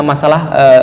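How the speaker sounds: ordinary delivery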